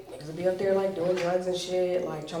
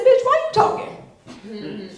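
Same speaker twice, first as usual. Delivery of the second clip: drawn-out, louder comeback; indignant retort; 6 dB louder, much slower than usual. Retold or imitated. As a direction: act out scolding the smart speaker, slowly. Snaps back at Google.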